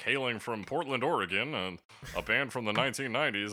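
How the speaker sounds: loud hyped band intro; announcer voice. Pretend. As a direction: announce the band over the music. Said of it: "I'm like".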